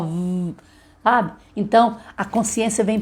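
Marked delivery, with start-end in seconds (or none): 0.0-0.5 v as a soft buzzing consonant alone; sounding out v. Shown as a demonstration. Teacher showing the child the v sound softly. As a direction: hum a quiet v sound, no vowel. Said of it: "faz o som, ó".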